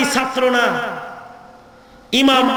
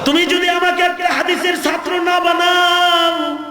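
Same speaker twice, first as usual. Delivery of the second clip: acted threat; 3 semitones higher than usual. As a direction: play a street tough refusing to let go. Acted threat while gripping the reins. (হুমকি দেওয়ার অভিনয়)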